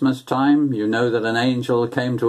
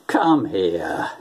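tender; 5 semitones lower than usual. Retold or imitated. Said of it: "you say".

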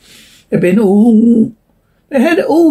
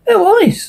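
higher, firm insistence; emphatic; 14 semitones higher than usual. A narrator's reading. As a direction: insist with weight on it. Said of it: "the first repeated emphatically".

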